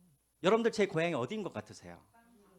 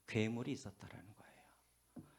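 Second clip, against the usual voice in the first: slow whisper, softer, letting the reveal land; hushed whisper; 5 semitones lower, 11 dB quieter than usual. Acted. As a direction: whisper the monster in slowly like a secret. Dramatic reveal of the monster.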